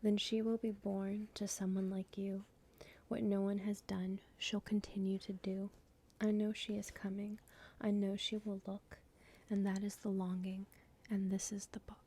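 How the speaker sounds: measured, hushed poetry recital; poem reading. Acted. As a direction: intimate poem reading with even cadence.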